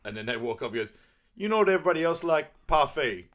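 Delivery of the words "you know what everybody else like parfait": higher, louder, fast Donkey pitch; Donkey's voice. Retold or imitated. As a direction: rattle it off like an eager Donkey. Donkey proposing parfait.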